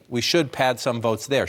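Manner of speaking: "should" given the emphasis in the sentence; stress on should. Real, not acted. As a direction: lean on the word "should". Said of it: "emphasis on should".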